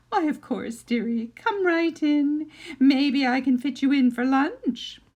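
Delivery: put-on sugary, sinister old witch; sweet witch voice. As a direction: lure him in with false sweetness. Gingerbread witch sweetly invites.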